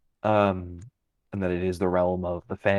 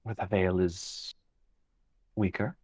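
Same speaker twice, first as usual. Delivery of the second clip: calm fey guide. Acted. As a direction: speak as an unhurried, cryptic fey creature. GM voices a fey figure.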